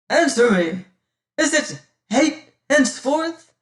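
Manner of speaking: loud, high, forceful; angry demand. Acted. Martin shouts at Damaris demanding the truth. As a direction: shout the question at her.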